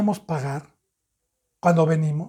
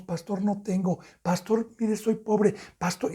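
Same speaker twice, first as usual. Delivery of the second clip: pleading; 5 dB quieter than usual. Retold or imitated.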